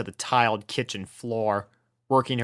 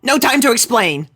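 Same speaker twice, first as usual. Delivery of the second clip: hurried; 11 semitones higher, 6 dB louder than usual. A narrator's reading. Rainbow hurrying.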